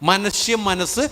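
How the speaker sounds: മനുഷ്യ മനസ്സ് stretched out slowly; slow emphasis. Shown as a demonstration. Priest stressing the verse to the congregation, slow. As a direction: linger on മനുഷ്യ മനസ്സ് with a rise. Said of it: "repeats the phrase".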